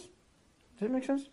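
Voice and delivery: slow, drawn-out question; slow repeat. Shown as a demonstration. Teacher repeating a check to the class, very slowly. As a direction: stretch each word out slowly. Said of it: "slowed repeat of question".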